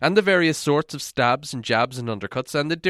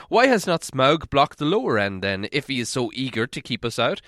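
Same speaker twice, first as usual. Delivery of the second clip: a hint of a stern dwarf king; lightly voiced proud dwarf; Thorin. Thorin chiding a gloomy Bilbo, lightly voiced stern dwarf.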